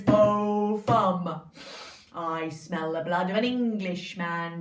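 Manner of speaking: booming, slow giant chant. Acted. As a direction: boom it like a giant. Giant's chant in told story.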